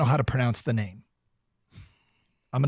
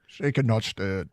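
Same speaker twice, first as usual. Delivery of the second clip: Bond impression; 3 semitones lower than usual.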